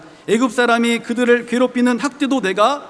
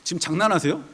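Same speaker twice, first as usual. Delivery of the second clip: indignant Moses; 5 semitones lower than usual. Pretend. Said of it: "제가 모세라면 전 이렇게 했을 것 같아요".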